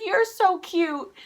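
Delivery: high, loud retold gush; gushing compliment. Fan returning the singer's compliment, high gush. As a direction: gush it right back, high.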